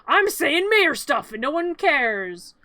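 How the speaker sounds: slow, droning mock-official mayor. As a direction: drag it out like a pompous mayor nobody listens to. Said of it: "the mayor dude's like".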